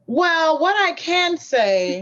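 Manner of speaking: measured, slow news-reporter delivery. Real, not acted. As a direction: speak like a TV reporter. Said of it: "your reporter voice on".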